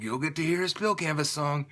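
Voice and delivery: understated, deadpan self-mockery; mock unenthusiastic. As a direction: mimic yourself failing to sound excited. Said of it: "I sound so excited".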